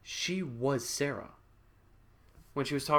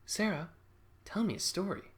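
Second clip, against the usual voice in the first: lightly voiced child, higher pitch; kid; 7 semitones higher, 3 dB quieter than usual. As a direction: ask like a little kid. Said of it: "hear a kid go".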